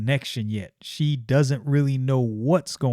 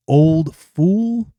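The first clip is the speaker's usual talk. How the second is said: breathy scorn; sneering whisper; 4 semitones higher, 7 dB louder than usual. Acted. Magus Numite mocks the old woman in a whisper. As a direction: hiss the insult.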